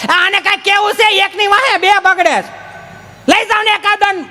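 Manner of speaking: high exasperated woman's voice; mother fed up with the kids, high and exasperated. Retold or imitated. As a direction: complain shrilly about the kids.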